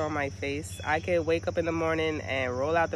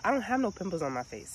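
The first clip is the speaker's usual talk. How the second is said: imitating young son; 5 semitones higher than usual. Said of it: "You know what my son said?".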